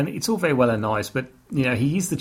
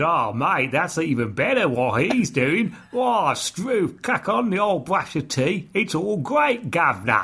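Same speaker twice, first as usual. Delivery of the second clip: fake Australian accent, higher pitched; 5 semitones higher than usual. Retelling how another guy suddenly speaks; fake australian accent. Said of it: "He turns into Australian".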